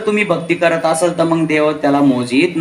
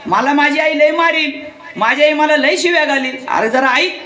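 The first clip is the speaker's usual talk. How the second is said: put-on pleading child; 6 semitones higher than usual. Child Krishna begs her again.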